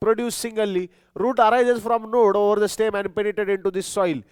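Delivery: very slow, word-by-word dictation; teacher dictating notes, very slow. Shown as a demonstration. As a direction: spell it out slowly for note-taking.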